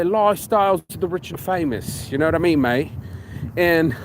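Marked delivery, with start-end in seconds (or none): 0.0-2.9 put-on English accent. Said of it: "with an English accent would say".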